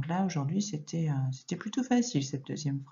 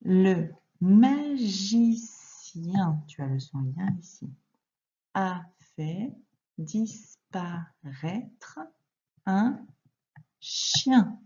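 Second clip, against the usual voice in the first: slow reading aloud; slower than usual. Shown as a demonstration. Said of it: "On y va pour la lecture ensemble".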